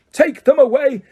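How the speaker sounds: roar, then drag out the curse; furious roar. A narrator's reading. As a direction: Crouch roaring at the Dementors. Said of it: "Crouch roared".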